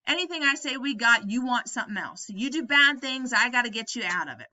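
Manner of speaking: a mild, half-hearted take on George's outburst; exploding George. Retold or imitated. George snapping at Lenny, a mild mock rant. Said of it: "He just explodes here".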